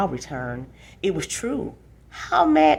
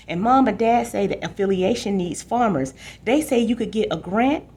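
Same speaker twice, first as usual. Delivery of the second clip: pushing; 4 semitones higher than usual. Acted. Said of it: "Danny pushed".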